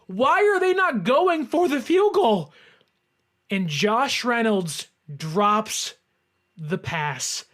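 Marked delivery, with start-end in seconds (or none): 0.0-2.5 retold scream. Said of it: "I'm screaming".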